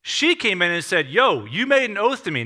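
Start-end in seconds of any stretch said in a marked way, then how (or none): 1.1-2.4 higher, mildly insistent challenge; acted-out demand on someone who promised; confronting tone. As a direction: push it like an urgent reminder. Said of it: "Now, I'm gonna use tone".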